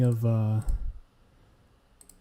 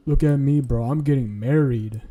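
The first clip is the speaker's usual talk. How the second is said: bro-ish mock brag, louder on look at me; mock bragging bro, louder; 4 dB louder than usual. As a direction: show off like a dudebro groom. Mocks guys getting married.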